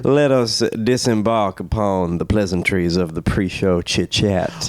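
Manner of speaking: lightly drawled, grandiose Southern phrasing; hint of a courtly Southern drawl; mock southern accent. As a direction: play the pompous Southern gentleman. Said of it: "to not drop the accent".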